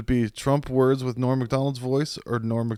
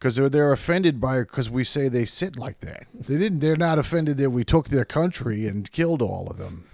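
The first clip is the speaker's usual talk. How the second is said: pitched-up indignant stand-up impression; George Carlin; 3 semitones higher, 3 dB louder than usual. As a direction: argue the absurdity like a stand-up veteran. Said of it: "that was close enough to Carlin".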